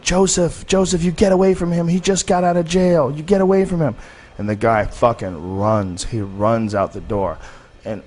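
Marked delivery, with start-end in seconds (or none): 0.0-4.0 high-pitched mock yell of a frantic librarian. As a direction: imitate the librarian shrieking a warning to the boy, pitched way up. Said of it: "the librarian screaming".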